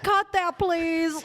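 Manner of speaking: high-pitched imitation of a pleading mom; mom's scolding. Host imitates her mom objecting to the swearing, high mom's scolding. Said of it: "My mom's already gonna be like".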